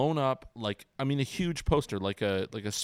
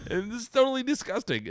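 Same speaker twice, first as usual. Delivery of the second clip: mock disgust; 13 semitones higher than usual. Real, not acted. Mock disgust at own childhood.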